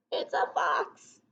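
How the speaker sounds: slow whispered reveal; hushed reveal. Acted. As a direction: whisper it like a secret to the kids. Reveals next animal to kids.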